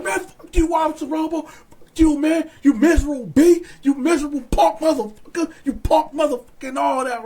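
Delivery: mock hollering. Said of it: "we hollering".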